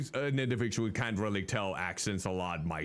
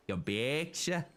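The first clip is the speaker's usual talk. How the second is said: put-on Midwestern accent; slower than usual. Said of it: "She has that Midwestern accent".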